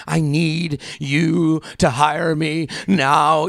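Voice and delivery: slow, pleading put-on voice; mock desperate plea. Imitating a desperate candidate in an interview, pleading. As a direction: beg for the job a little too hard.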